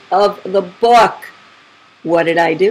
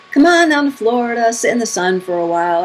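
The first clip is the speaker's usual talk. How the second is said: higher-pitched coaxing invitation, falling back; retold sister talking someone into it; 5 semitones higher than usual. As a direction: start high and inviting, like a persuasive sister. Retold sister coaxing her along.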